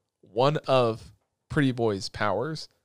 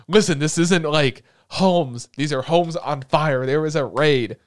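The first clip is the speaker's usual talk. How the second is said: mock exasperated warning; 2 semitones higher, 6 dB louder, slower than usual. Friend corrects, alarmed.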